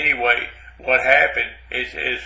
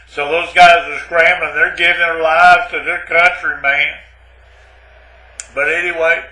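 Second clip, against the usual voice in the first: building to a hammed-up loud rant; mock frantic; 5 dB louder than usual. Retelling the reactor blast to the audience, hammed-up rising shout. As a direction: work yourself up louder and louder over the disaster. Tall tale of reactor blowing up.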